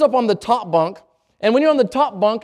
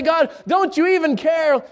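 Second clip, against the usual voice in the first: slow doubting plea; 6 semitones higher than usual. Acted. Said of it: "go to God and say".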